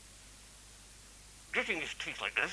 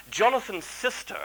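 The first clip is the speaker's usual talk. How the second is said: dramatic whisper; 8 semitones higher, 4 dB louder than usual. Acted. Dramatic reveal of the illness.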